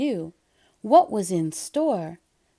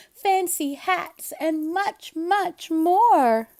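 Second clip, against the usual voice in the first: excited Splat; 4 semitones higher than usual. Acted. Splat dreaming up the surprise party, excited. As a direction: pile on the treats gleefully.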